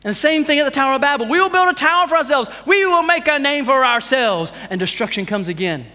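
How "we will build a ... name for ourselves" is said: grand declaration. Acted. Acting out Babel builders' boast.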